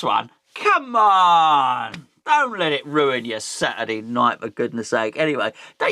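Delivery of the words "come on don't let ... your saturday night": long drawn-out, exasperated cry; exasperated appeal. Real, not acted. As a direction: stretch it out, pleading with fans to calm down. Exasperated appeal to fretting fans.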